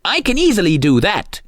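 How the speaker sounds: high toy soldier voice; volunteer as a keen tin soldier; tin soldier crying out. A narrator's reading. Tin soldier offers to shoot the lock, high cry. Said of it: "cried the tin soldier".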